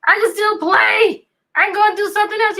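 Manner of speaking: a hint of an eager kid; Max's upbeat quote. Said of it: "He said".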